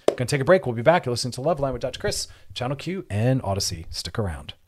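fast, loud, bright-on-air plug for the show; radio announcer break. Acted. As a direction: sell the station break like a DJ.

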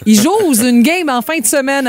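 "jose" with a voiced z, for joue; faulty verb form. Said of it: "la moitié de la population dit ça".

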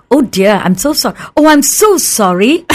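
gently apologetic, rising on sorry; polite apology. Acted. Caller who dialled a wrong number, politely apologising. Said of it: "Or just be polite".

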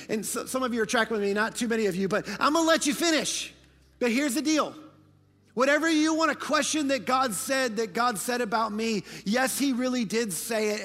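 loud, high, rhythmic preaching with sung answers; full-force preaching. Acted. Preacher proclaiming God's promises to the congregation, fervent. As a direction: build it like a revival climax.

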